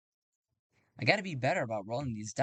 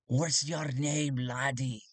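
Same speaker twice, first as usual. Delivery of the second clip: sheriff; slower than usual. Acted. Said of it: "the sheriff looks at him and goes".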